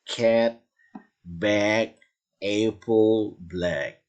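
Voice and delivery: cat, bag, apple said with a wide open ae vowel; English ae vowel. Shown as a demonstration. Teacher drills cat and bag with open ae. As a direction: stretch the a in cat toward ae. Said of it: "Jadi harus ada A dan E-nya itu".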